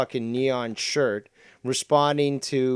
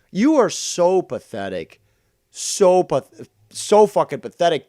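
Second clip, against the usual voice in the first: contemptuous yell; 6 semitones higher, 7 dB louder than usual. Real, not acted. Contemptuous rant at rival.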